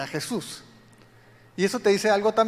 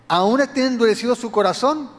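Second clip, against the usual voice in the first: louder, higher stern questioning; rebuking Jesus; 4 semitones higher, 7 dB louder than usual. Retold or imitated. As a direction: press the disciples hard. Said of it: "Jesús hace una serie de preguntas".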